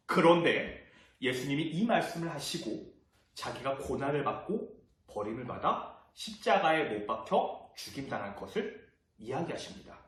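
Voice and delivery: normal talking voice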